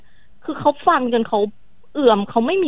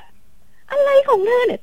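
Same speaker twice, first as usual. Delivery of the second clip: high, slow mocking voice; teasing husband; 14 semitones higher, much slower than usual. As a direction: drag it out, needling her. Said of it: "เขาก็จะแบบ".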